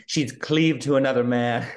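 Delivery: lightly imitating a stiff melodrama mother; mock period-drama mother. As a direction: draw it out with mock gravity. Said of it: "acting like we're in Downton Abbey".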